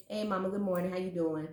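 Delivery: easy everyday hello from a child, barely voiced; light hint of a child saying hey Mama; casual kid greeting. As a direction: toss it off like a kid coming downstairs. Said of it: "it's normally".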